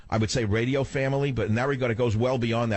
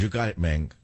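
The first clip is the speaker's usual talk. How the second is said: "You got it, Ming" with a Puerto Rican gangster lilt, "got" stressed; Puerto Rican accent. Shown as a demonstration. Host practicing his Puerto Rican accent on air. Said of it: "That's more Puerto Rican".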